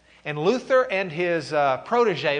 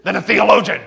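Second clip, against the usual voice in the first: much louder, higher, laughing through it; 6 semitones higher, 15 dB louder than usual. Real, not acted. Teacher laughing loudly while describing Eck to the class. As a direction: laugh as you tell it.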